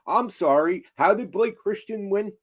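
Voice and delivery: ordinary delivery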